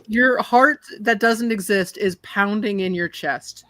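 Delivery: slow, drawn-out scene setting; game master's narration. Acted. Game master describes a vast ocean to Prophet, slow narration. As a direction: paint the scene slowly, with pauses.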